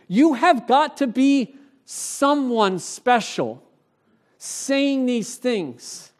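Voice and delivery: acted-out pleading that slows right down at the end; mock begging. Questioners pressing John for an answer to take back, mildly begging. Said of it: "Now they're begging".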